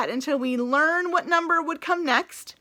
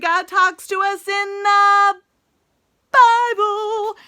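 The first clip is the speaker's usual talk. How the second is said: excited build-up; 5 semitones higher, 8 dB louder, slower than usual. Real, not acted. Teacher builds up to big word.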